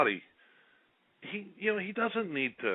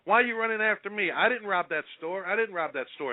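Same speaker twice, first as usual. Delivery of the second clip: pleading suspect; 9 semitones higher than usual. Retold or imitated. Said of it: "he's saying".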